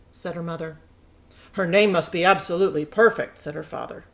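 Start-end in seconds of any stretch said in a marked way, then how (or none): 1.5-3.4 eager. Acted. Father insists on perfect name.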